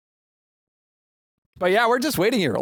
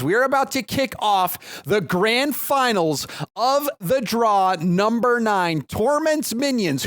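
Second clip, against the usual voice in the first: big drawn-out match introduction; esports announcer; 2 semitones higher than usual. Acted. Caster introduces the grand finals to viewers, announcer delivery. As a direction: build the hype, stretching team names and key words.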